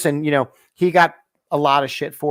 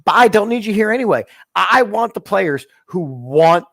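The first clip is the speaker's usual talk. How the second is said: quoting the coach; 4 semitones higher than usual. Retold or imitated. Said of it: "He's like".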